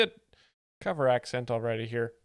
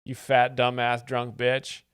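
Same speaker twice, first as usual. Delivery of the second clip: mock roast; 5 dB louder, slower than usual. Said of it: "He would say".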